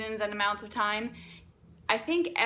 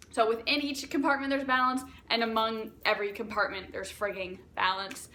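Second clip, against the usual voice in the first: excited. Real, not acted. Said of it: "I'm getting very excited about this".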